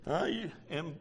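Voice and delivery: slow, amused aside; laughing. Real, not acted. Preacher amused, answering the Lord, slow laughing aside. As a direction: chuckle and drawl it out.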